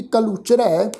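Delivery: ਕਲੂਚਰੈ said syllable by syllable, ending in a clear ਐ; careful pronunciation. Shown as a demonstration. Teacher models ਕਲੂਚਰੈ for the congregation, precise pronunciation. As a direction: spell out ਕਲੂਚਰੈ slowly. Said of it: "ਇਸ ਦਾ ਉਚਾਰਨ ਕਰਾਂਗੇ ਜੀ".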